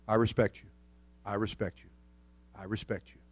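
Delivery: fading submission. Retold or imitated. Beaten Tyson submitting to inmates, fading to quiet.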